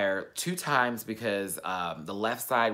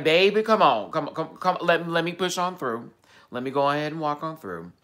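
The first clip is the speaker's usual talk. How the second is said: loud, high, hammed-up diva brush-off; dramatic sass; 7 semitones higher, 7 dB louder than usual. Telling little brother to let him through, loud hammed-up sass. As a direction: push past the kid like a diva.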